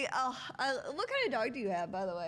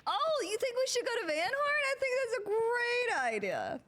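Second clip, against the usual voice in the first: excited; 13 semitones higher, 4 dB louder than usual. Acted. Role-play chat to character.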